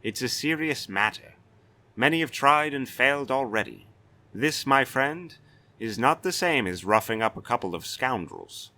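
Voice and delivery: a proud castellan threatening a brigand; stern Castellan. Acted. Castellan threatening the white-haired stranger, blustering.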